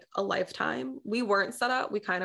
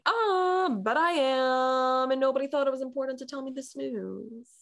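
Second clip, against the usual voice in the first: put-on caught-out girl owning up to her rabbi; sheepish admission; 5 semitones higher than usual. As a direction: confess it sheepishly. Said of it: "I'm like".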